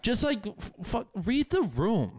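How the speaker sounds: worked-up, stretched-out exasperation; exasperated. Real, not acted. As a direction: plead in disbelief, pitch way up. Venting at the rude women.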